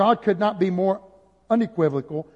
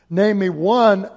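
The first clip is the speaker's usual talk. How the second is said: louder, punchy repeat; loud challenge; 6 dB louder, slower than usual. Acted. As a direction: fire it back at the room.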